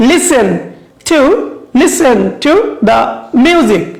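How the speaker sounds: "listen" and "music" stressed, word by word; pronunciation model. Shown as a demonstration. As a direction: separate each word, leaning on "listen" and "music". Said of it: "Can you pronounce it?".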